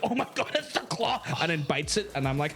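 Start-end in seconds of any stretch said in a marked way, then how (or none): 0.0-1.2 high squeaky mock voice for the dog; dog's playful voice. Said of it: "and he's like".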